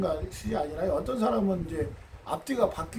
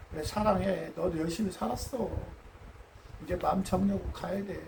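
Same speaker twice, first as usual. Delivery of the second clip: tender comfort; 3 semitones lower, 4 dB quieter than usual. Retold or imitated. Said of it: "이렇게 얘기해야지".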